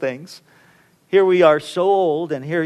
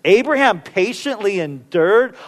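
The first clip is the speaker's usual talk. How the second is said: incredulous. Retold or imitated. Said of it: "I think to myself".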